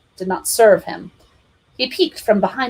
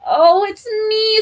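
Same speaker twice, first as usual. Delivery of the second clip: put-on high slow child cry; high wailing kid; child scream; 13 semitones higher, 4 dB louder, slower than usual. A narrator's reading. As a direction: cry out like a hurt boy. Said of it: "screamed Tonto".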